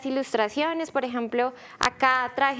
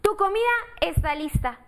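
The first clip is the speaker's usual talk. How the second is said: mom voice; 6 semitones higher than usual. Acted. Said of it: "dijo la mamá de Bernardo".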